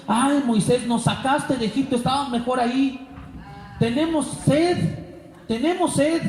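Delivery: mock whine of grumbling people; whiny complaining crowd. Grumbling people whining at Moses for water.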